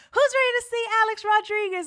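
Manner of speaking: fast, loud, high announcer call; hyped host. Retold or imitated. Host revving the crowd for Rodriguez, loud and high. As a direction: sell the star to the crowd.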